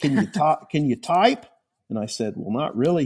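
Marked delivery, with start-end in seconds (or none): 0.0-1.4 put-on heavy, thick, laid-on Oklahoma accent, pitched up. Act out the man who talked you out of it asking you a question, real thick Oklahoma accent. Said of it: "He's got this real thick Oklahoma accent".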